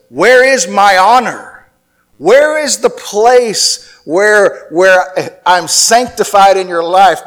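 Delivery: pleading as God, voice lifted; the Lord's plea. Retold or imitated. Voicing the Lord pleading.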